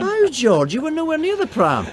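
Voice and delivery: surprised. Acted. Realises George staged the accident.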